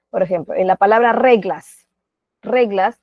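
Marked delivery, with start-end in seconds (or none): 1.1-1.9 "reglas" with the force on "re"; stress on first syllable. Shown as a demonstration. Teacher showing where the word reglas carries its stress, first syllable stressed. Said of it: "la mayor fuerza de voz". 2.4-3.0 "reglas" said alone, weight on "re"; stress on first syllable. Shown as a demonstration. Teacher repeating reglas to show its strongest syllable, "re" stressed. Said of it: "la mayor fuerza de voz".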